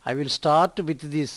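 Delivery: stretched out, word by word; slow model sentence. Shown as a demonstration. Teacher repeating the sentence slowly for Telugu learners. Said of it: "slow model reading".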